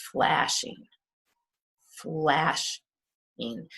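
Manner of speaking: flashing with a long FLASH and light ING; stress on first syllable. Shown as a demonstration. Teacher models flashing, stressing the first syllable. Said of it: "it's on the first syllable".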